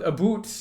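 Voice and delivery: "boot" for about, stretched out slowly; slow, joke Canadian "a boot"; Canadian accent. Shown as a demonstration. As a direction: ham up the Canadian vowel in "boot". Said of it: "Give us that Canadian accent".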